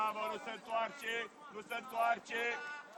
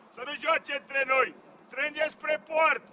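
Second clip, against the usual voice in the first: slow, raised, drawn-out shout; shouted instructions; 4 semitones higher, 5 dB louder, slower than usual. Real, not acted. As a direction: stretch the words so they carry across the pitch. Coach shouting drawn-out orders. (indicații strigate rar și înalt)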